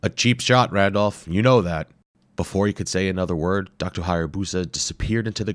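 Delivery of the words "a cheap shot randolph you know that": higher, louder playful protest; mock-offended explorer. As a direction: laugh off a jab.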